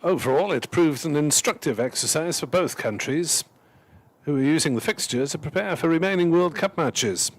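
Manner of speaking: a hint of posh broadsheet reading; slightly posh voice. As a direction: read like a posh match report. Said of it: "reading it in a sort of slightly posh voice".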